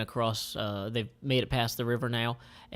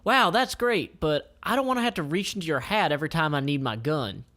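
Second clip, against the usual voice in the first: put-on young Jackie; 4 semitones higher than usual. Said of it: "And Jackie says".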